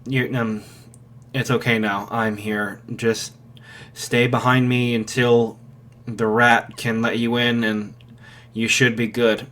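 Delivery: low, soft, weary reassurance; a worn-out man quietly taking charge; exhausted hero tells the mother to stay behind him, low and quiet; tired hero. Acted.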